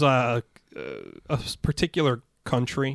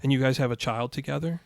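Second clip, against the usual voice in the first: matter-of-fact, creepily calm question; imitating an eerily unbothered stranger. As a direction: ask it evenly, far too calmly. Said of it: "very matter-of-factly. So calm, it was creepy".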